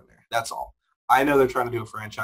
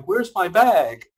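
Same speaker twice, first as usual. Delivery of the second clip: slow, loud, higher mock bewilderment; mock confused victim; 7 semitones higher, 6 dB louder, much slower than usual. Mocking a movie victim who just noticed, slow and loud. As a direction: drag it out like a baffled mark. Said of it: "the next shot is person going".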